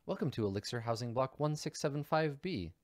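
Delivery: lightly voiced housing-block greeter; automated housing voice. Building voice greets arriving visitor, lightly voiced announcer. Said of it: "a voice, um, uh, that's like".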